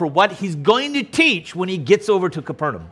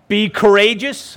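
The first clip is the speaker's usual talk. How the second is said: rephrased command; 5 semitones higher, 4 dB louder than usual. Acted. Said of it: "if I could say it like that".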